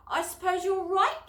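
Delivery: giggling. A narrator's reading. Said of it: "giggled Jane".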